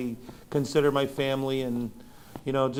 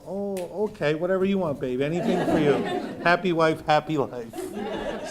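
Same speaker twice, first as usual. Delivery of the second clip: laughing, doting reply; 3 semitones higher than usual. Retold or imitated. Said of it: "I go".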